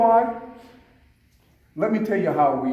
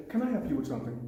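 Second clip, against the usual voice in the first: polite offer of help; 7 dB quieter, faster than usual. Shown as a demonstration. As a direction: offer help without any challenge. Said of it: "I didn't say, What do you want?".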